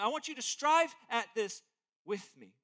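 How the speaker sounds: an earnest apostle begging the church; urgent plea. Retold or imitated. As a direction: plead with full urgency. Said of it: "He's urgent".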